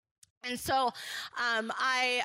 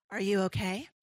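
still, quiet concern; 7 semitones lower than usual. Retold or imitated. The boss on the phone, hushed and still. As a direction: boss asks calmly if she is okay, quiet and still. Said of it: "stillness of voice".

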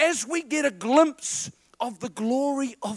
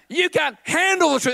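loud, higher movie line; Jack Nicholson impression; 8 semitones higher, 4 dB louder than usual. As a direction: bark it like the colonel. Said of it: "it's Jack Nicholson".

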